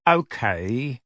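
held-back, careful calm; forced calm. A narrator's reading. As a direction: keep it deliberately calm, forcing it. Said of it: "in a voice of forced calm".

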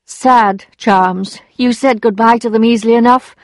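understated bitter reproach. A narrator's reading. Emma reproaches her former lover, mildly bitter. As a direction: answer with a touch of bitterness. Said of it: "she answered bitterly".

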